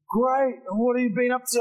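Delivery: high-pitched, chirpy acted reply; put-on upbeat chatter; cheery small talk. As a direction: play a friend eager to chat.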